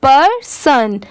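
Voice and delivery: पर्सन in two parts, per, then son; teacher's careful per-son for पर्सन; syllables put together. Shown as a demonstration. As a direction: say पर्सन with a small gap after per. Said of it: "दोनों मिला देंगे".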